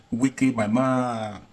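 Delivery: loud, laughing call of a name; a loud, laughing shout-out; loud excited hail. Real, not acted. Presenter hails Wiki loudly.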